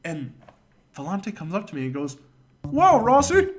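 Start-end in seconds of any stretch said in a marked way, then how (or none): 2.6-3.5 high, loud astonished cry; surprised coach shout. Retold or imitated. Coach amazed at the runner, high loud shout. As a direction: blurt it out amazed.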